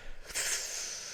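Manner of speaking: breathy mimed retch, no voice; imitated retching. Mate imitating his friend balking on the balcony, mock retching. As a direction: heave out air like someone about to vomit. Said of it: "He's literally balking like that".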